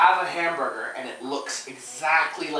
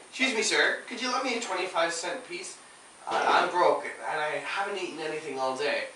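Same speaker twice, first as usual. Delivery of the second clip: hungry beggar. Shown as a demonstration. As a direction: beg for money while starving. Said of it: "he's like this, but he's so hungry".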